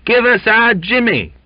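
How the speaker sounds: very high, loud yelp. A narrator's reading. Young sailor demanding his mate back, excited yelp. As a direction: yelp it out, carried away. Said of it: "then yelped".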